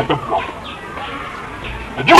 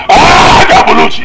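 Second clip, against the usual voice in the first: shouted catchphrase; 3 dB louder, slower than usual. Acted.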